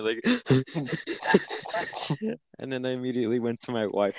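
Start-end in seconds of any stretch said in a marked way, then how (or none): 0.3-2.3 high, gasping laugh-sobs; put-on panicky sobbing gasps; mock hyperventilating. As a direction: act out crying and gasping for air. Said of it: "crying and hyperventilating".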